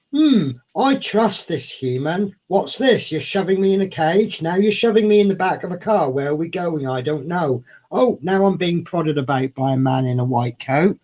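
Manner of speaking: lightly voiced grumpy cat; a hint of an indignant pet; cat's inner voice.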